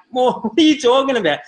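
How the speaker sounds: mock bewildered. Bewildered self quoted.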